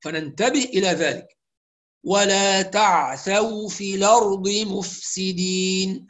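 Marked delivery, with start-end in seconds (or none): 2.0-6.1 slow measured tajwid reading; Quranic recitation. Shown as a demonstration. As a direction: recite the verse slowly. Recites verse.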